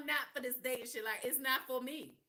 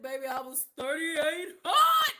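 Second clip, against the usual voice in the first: furious shout; 4 semitones higher, 12 dB louder, slower than usual. Real, not acted. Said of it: "I was mad as a motherfucker".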